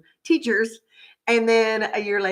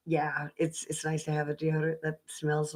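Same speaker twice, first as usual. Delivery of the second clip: whisper; 4 semitones lower, 10 dB quieter than usual. Real, not acted. Trailing aside.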